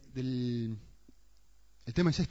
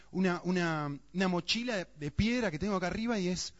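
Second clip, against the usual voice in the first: higher, tumbling list of burdens; overwhelmed; 4 semitones higher than usual. Acted. Preacher voices his own stress to the congregation, mildly overwhelmed. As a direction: rattle off the pressures like a weight.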